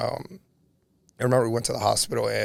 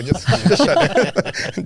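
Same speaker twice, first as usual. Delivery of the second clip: higher and louder, cracking up mid-line; laughing disbelief; 8 semitones higher, 6 dB louder, slower than usual. Retold or imitated. Son laughs while telling dying dad to just go. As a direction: laugh it out, half teasing your dad. Laughing at dad's odd last wish.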